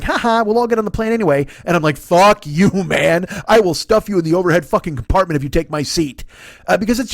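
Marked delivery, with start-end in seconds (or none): 0.0-1.5 mock cheerful. 2.0-6.2 mock angry outburst. Imagined rant at boarder.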